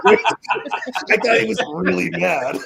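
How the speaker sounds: talked through real laughter, slow and high; laughing. Real, not acted. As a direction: laugh your way through the line. Laughing while telling story.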